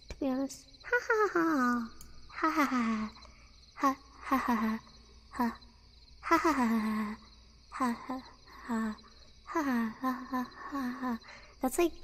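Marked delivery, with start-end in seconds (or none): 0.8-11.2 attempted mock laugh in spaced ha-ha bursts; Balloon Boy. Streamer unsure how the character laughs, tentative imitated laugh. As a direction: fake character laugh, trailing off softer. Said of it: "how to laugh like Balloon Boy".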